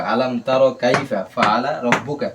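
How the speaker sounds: slow, measured recitation with long vowels; Quran recitation. Shown as a demonstration. Teacher models the verse for students, slow recitation. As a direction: recite slowly, drawing out the long syllables.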